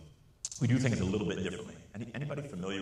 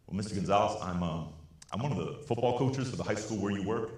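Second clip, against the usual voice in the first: retold angry coach; 2 semitones higher, 5 dB louder than usual. Football coach yelling at teacher over phone, mock angry. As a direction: play the coach chewing him out, half-acted. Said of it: "Starts yelling through the phone".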